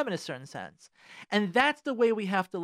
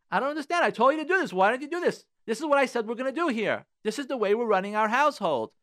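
raised, louder scolding husband impression; mock bossy husband; 5 semitones higher, 3 dB louder than usual. Husband lecturing his wife about how the household runs, raised and louder. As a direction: play the controlling husband laying down orders. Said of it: "some men who talk like that".

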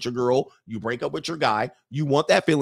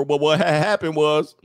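mock coach excuses. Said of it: "And you come over".

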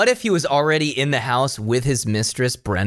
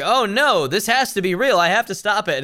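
higher-pitched alarmed heroine; mock panic; 6 semitones higher than usual. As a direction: play a mildly hammed-up panic. Voices panicked character in retold plot.

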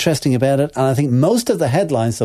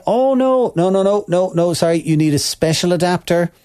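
mock corporate refusal. Tech critic mimics Apple refusing customers, mock-apologetic. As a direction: lightly imitate an officious company brush-off.

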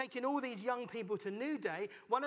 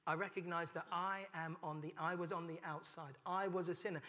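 humble prayer; 2 semitones lower, 4 dB quieter than usual. Retold or imitated. Believer quietly confesses to God in humble prayer. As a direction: admit it gently before God. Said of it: "you need to say".

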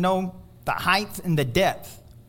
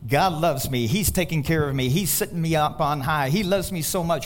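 "God" and "He" stressed at each phrase start; 4 semitones lower than usual. Shown as a demonstration. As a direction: lean on "God" and "He" each time. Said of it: "Who's the emphasis on when we talk like that?".

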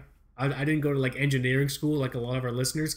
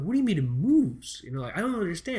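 higher-pitched comic incredulity; retold bafflement; 5 semitones higher than usual. Customer not understanding the hardware clerk's advice, baffled. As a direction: question it in exaggerated, high-pitched confusion.

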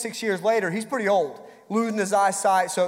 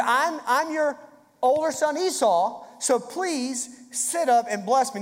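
lightly raised, slow put-on voice as Esau; disguised voice; 4 semitones higher, slower than usual. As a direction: Jacob faking his brother's voice, only a hint. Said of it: "it sounded like this".

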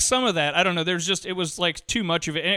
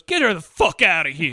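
half-played burst of anger; mock pissed-off cop. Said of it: "He gets very pissed".

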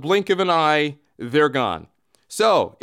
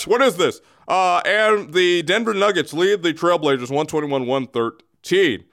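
alien voice. Acted. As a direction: greet the Earthlings like a visiting alien. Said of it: "Here is Bagman".

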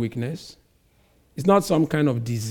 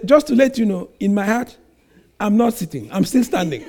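higher, light child's voice, a hint of sass; cheeky child; 4 semitones higher, faster than usual. Child telling the mother it still stands inside, lightly voiced. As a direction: play the sulky kid having the last word.

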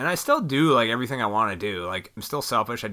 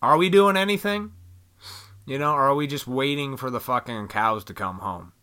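serious talk; 3 dB louder than usual. Retold or imitated. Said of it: "You gotta have those serious talks like".

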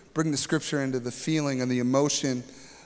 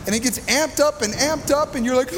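high-pitched, raised preaching voice; mounting agitation; 8 semitones higher, 3 dB louder than usual. Real, not acted. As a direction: wind it up towards breaking point. Building agitation over storm noise.

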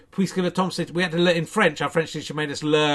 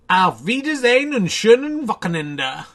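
German teacher farewell; 6 semitones higher, 7 dB louder than usual. Retold or imitated. Imitating old German teacher.

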